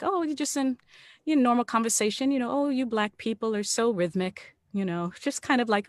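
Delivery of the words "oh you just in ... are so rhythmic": high, airy, mock-friendly remark; imitated casual condescension. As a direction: toss it off like innocent small talk. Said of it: "they say it kind of like".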